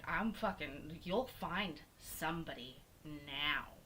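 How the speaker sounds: slow, measured retold demand; stern mama bear. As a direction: spell out the order, restrained anger. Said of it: "mama bear hormones".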